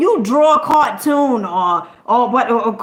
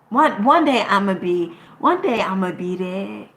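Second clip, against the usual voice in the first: mock timid dreamer; 2 semitones lower than usual. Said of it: "Imagine me saying some whack mess like that".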